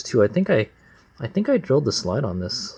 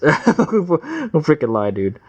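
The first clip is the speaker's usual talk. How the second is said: gruff plain mechanic; 6 semitones higher, 4 dB louder, much slower than usual. Real, not acted. Laughing at dirty carb.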